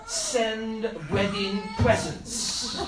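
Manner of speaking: the husband proudly explains, in a hammed-up Eastern European accent. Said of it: "in his thick Eastern European accent".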